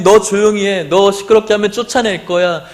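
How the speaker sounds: a mild stern rebuke; scolding crowd. Acted. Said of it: "이렇게 꾸짖게 되고".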